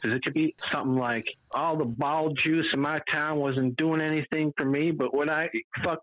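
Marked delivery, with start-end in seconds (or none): 1.5-6.0 mock character voice. Voicing a quote about ball juice.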